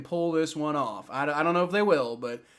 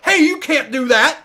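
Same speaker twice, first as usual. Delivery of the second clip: higher, louder imitation of a ref objecting; mock scolding referee; 9 semitones higher, 10 dB louder than usual. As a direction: mimic an officious ref objecting. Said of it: "the refs were like".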